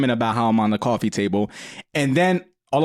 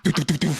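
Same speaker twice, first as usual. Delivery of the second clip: imitated fart noise; 4 semitones higher, faster than usual. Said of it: "all hear is".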